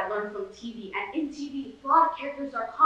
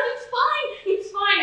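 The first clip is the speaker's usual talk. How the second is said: hurried reassurance; 11 semitones higher, slower than usual. Retold or imitated. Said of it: "And I'm like".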